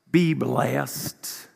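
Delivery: put-on a light Southern televangelist accent; mock a TV preacher in a Southern drawl; lightly voiced Southern preacher's blessing. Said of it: "I always do a Southern accent".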